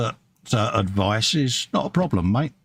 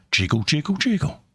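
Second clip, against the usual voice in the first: tank sound imitation; 5 semitones higher than usual. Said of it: "that's how tanks sound".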